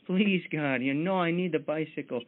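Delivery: pleading at the top of his lungs, hammed up; kid's mock shouted prayer. Billy shouting his prayer up to God, mock yell. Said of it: "Billy shouting".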